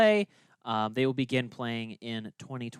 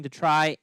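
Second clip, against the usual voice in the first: "try" leaned on and louder; stress on TRY; 4 dB louder than usual. Real, not acted. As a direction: put the weight on "try". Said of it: "emphasis on the word try".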